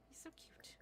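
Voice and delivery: adoring whisper. Real, not acted. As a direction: whisper it, melting over the dog. Adoring the dog.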